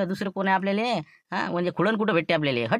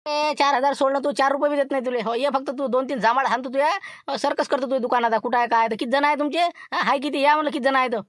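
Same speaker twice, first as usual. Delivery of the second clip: Laxman's thin voice; 7 semitones higher than usual. Pretend. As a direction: squeeze the voice thin and high to pass as someone else. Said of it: "बरोबर बारीक आवाज काढतो".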